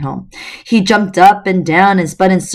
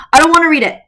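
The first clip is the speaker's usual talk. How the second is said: reluctant refusal; 11 semitones higher, 4 dB louder, much faster than usual. Acted. Alex refusing, higher voice.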